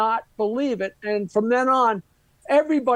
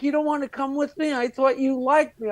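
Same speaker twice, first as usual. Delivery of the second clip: higher, lightly imitated tearful plea; mock hurt plea; 4 semitones higher than usual. Girl hurt he won't visit her father, mild mock tearful plea. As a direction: play the wounded girl, half-hearted tears. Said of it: "And she started crying".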